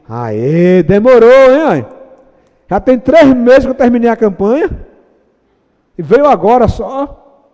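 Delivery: loud, exasperated believer grumbling; mock whiny gripe; impatient complaint. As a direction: complain to God like a kid kept waiting.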